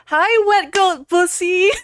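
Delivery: high, loud, drawn-out hello to a viewer; excited greeting. Real, not acted. Streamer greets a viewer in chat, loud and high. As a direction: belt out the welcome like a game-show host.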